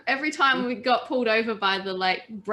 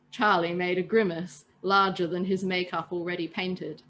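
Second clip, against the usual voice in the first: calm read-aloud storytelling voice; steady storyteller narration; story narration. A narrator's reading. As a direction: read it like a bedtime tale to friends. Reads story aloud to listeners.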